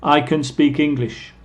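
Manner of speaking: unstressed, quick "can" as kun; reduced can. Shown as a demonstration. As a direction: let "can" shrink to a short kun. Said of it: "en velocidad normal".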